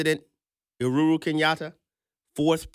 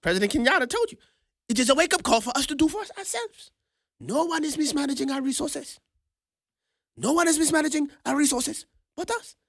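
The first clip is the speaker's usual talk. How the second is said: fervent preaching; 10 semitones higher than usual. Real, not acted. Preaching the point.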